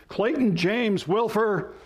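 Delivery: high, slow full-name summons; scolding mom. Acted. Mom calling out a child in trouble, stern. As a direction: draw out each name as a mock parental warning. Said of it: "if your mom used your full name, you were in trouble".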